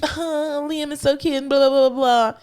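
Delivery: lightly voiced doting grandmother; gushing grandma. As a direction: coo over the baby. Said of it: "as cute as she's".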